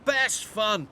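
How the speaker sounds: high, slow delighted cry; excited cry. A narrator's reading. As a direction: cry out with glee before swooping. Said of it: "cried Alfie".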